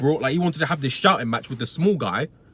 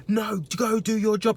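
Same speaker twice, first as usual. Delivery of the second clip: much higher, slow scornful imitation; mock rude customer; 8 semitones higher, slower than usual. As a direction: sneer it out like the rude man. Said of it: "He's like".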